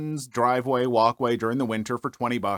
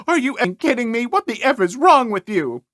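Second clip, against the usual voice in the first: higher, quick indignant outburst; mock outraged yell; 8 semitones higher, 5 dB louder than usual. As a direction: blow up at him in disbelief. Karen yells at narrator.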